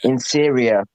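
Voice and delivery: lightly voiced Trump speech, deliberate and formal; Trump accent. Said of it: "can I do a Trump accent".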